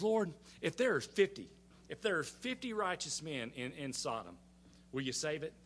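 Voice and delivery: a hint of Abraham's pestering, softening as he goes; lightly voiced pestering friend. Abraham bargaining with the Lord for Sodom, mildly pestering. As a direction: gently ask like a persistent friend. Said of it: "irritating little friends".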